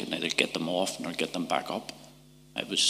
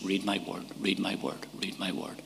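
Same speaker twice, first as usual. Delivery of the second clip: repeated softly, each time softer until nearly gone; fading divine voice; 6 dB quieter than usual. Retold or imitated. God speaking to him through the night, fading softer. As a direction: let the call fade away into silence.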